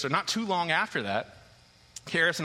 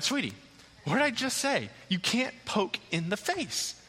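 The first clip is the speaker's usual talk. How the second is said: exasperated dad; 6 semitones higher than usual. Retold or imitated. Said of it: "So I'm like".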